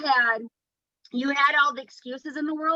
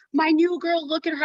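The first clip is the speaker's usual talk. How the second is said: higher, louder mock-upset quote; retold distress; 5 semitones higher, 4 dB louder than usual. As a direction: act out a friend's worried outburst. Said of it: "she's crying for you".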